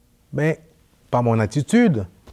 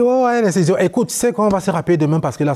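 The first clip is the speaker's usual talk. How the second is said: higher and louder, fed up and cutting it short; exasperated outburst; 8 semitones higher, 4 dB louder, faster than usual. Retold or imitated. Son losing patience with his mother on the phone, high loud exasperation. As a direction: snap at mom to end the call, fast at the end. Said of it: "Je m'en mets".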